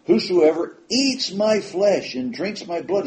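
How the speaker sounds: a preacher hammering the scripture home; driving it home. Acted. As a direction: drive the verse home word by word. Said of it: "he's driving this home to them".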